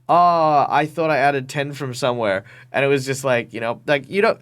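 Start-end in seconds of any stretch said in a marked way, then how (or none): 0.1-2.4 put-on caught-out kid excuse. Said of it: "kid caught out".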